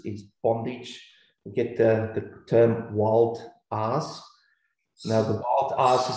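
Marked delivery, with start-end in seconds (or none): 2.2-6.2 New Zealand accent, "ass" said as a long, open "arss". Real, not acted. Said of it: "I've got a New Zealand accent".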